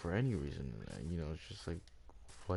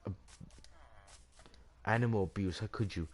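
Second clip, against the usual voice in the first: higher-pitched mock outrage, hammed-up; mock outraged gamer; 3 semitones higher than usual. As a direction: parody someone scandalised by a game. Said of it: "For example".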